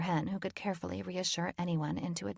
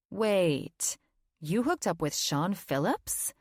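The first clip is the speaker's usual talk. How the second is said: shocked; 4 dB louder, slower than usual. A narrator's reading. Shocked friend question.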